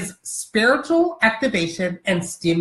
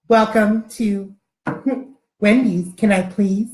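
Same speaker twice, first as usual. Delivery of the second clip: automated drive-thru voice. Retold or imitated. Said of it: "I used to do that over there at".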